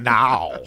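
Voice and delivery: NOW pronounced "nawl"; added final L. Retold or imitated. Host repeats his new catchphrase, NOW with an added L. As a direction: tack an L onto the end of NOW. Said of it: "put an L at the end of that word".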